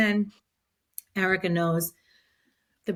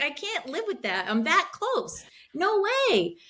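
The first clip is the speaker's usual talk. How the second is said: emphatic refusal; 7 semitones higher than usual. Retold or imitated. Acting out her refusal mid-race.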